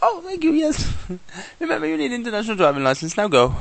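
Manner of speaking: high, loud sing-song thank-you; sly corrupt cop pocketing the cash; mock grateful cop. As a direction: ham up the pleased crooked cop. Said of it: "He's like".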